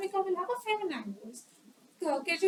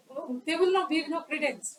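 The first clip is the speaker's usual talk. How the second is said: usual speaking voice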